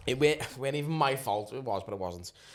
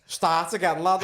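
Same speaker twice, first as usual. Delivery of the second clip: stern order; 4 semitones higher, 6 dB louder, slower than usual. Retold or imitated. Examiner ordering restart.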